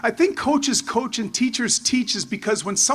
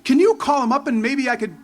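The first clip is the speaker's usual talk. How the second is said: eager plea; 3 semitones higher than usual. Retold or imitated. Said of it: "I'm like".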